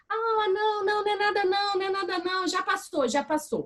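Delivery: put-on high, sing-song hushing of a child; soothing parent. Mother hushing her fallen crying child, high and sing-song. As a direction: coo at the child so they stop crying.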